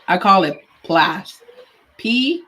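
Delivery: talking around ice in mouth; slow, spelled out with ice in mouth. Real, not acted. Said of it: "Sorry, I have ice in my mouth".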